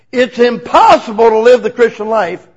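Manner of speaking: loud preaching proclamation; preacher booming to a crowd. Shown as a demonstration. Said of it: "he would say".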